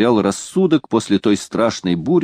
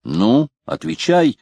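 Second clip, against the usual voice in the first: stern demand; 7 semitones higher, slower than usual. A narrator's reading. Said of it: "повторил капитан с поднятой тростью".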